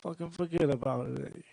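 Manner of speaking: lightly put-on gangster voice; Joe Pesci impression. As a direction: toss it off like a mob-movie tough guy. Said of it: "pretend I'm Joe Pesci for a second".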